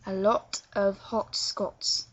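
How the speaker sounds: slow, rounded British O in "lot", "hot", "Scots". Shown as a demonstration. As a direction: draw out each short O in "A lot of hot Scots". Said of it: "pronounce your O".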